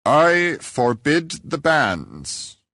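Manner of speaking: slow, ringing protest in church; loud church objection. Retold or imitated. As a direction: stand up and proclaim it to the whole church. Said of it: "the next thing I heard was".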